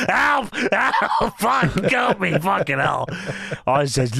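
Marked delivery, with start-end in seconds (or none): 0.1-3.1 mock cries for help. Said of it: "Vince says".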